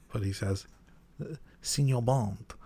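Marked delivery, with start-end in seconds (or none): 1.6-2.5 put-on hammy Latino villain accent; Sanchez accent. Host tries out Sanchez's accent on his co-host, mock Latino accent. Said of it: "should I do the accent".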